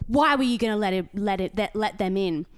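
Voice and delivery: loud, high indignant lecture; mock scolding. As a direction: mimic a self-righteous neighbour. Old man scolds narrator.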